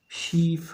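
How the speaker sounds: "शीप" with the ee held long; long ई sound. Shown as a demonstration. Teacher repeating an example word, long ई in "शीप". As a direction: hold the ई in "शीप". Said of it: "ये तो lengthy है".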